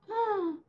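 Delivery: short, soft high gasp; mock gasp. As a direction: gasp as if caught out. Mock reaction to Japanese question.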